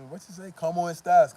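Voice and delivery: hammed-up foreigner greeting; mocking gringo. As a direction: play the clumsy foreigner trying Spanish. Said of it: "they just".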